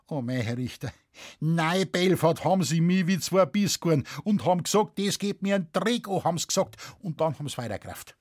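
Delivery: aggrieved farmer recounting the squabble; Bavarian peasant witness, exasperated. Acted. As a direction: complain to the judge in broad dialect. Witness answers judge.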